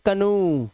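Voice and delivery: कनू ending in a long oo; कनू with a stretched final oo. Shown as a demonstration. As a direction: say कनू as "ka-noo", holding the last vowel. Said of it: "इसे पढ़ते हैं".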